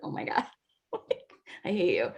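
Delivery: laughing through a fake I hate you; playful exasperation, giggling; laughing mock complaint. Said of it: "And I was like".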